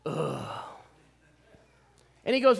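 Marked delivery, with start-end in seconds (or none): 0.0-0.6 low muttered ugh of disgust; soft disgusted ugh; disgusted grunt under the breath. Retold or imitated. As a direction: groan quietly in disappointment. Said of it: "said underneath my breath".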